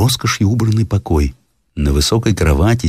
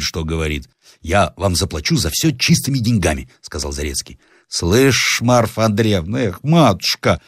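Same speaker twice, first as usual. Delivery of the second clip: put-on old husband chiding his wife; lightly voiced grumbling old man; 5 semitones higher than usual.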